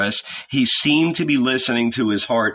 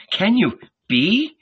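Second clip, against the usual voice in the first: slow, higher, trembling question; 8 semitones higher, slower than usual. Acted. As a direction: ask slowly, barely daring. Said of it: "slowly and in a trembling voice".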